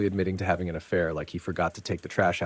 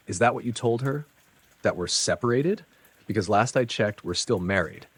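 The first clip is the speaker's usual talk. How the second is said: angry; 4 semitones higher than usual. Retold or imitated. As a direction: confront him furiously. Angry confrontation.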